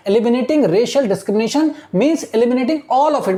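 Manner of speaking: very slow, word by word reading; slow classroom dictation of English text. Shown as a demonstration. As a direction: read it out slowly so students follow. Teacher rereads the line slowly.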